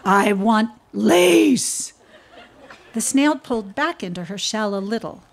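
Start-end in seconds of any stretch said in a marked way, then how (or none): 0.0-1.9 slow, loud, drawn-out demand; a big beast insisting; lightly voiced hippo wanting lace.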